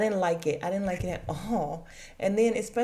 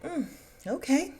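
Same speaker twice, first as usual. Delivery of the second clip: sceptical okay; 8 semitones higher than usual. Retold or imitated. Wife answering husband's vague plan, sceptical. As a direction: answer as if unconvinced. Retells her sceptical reply.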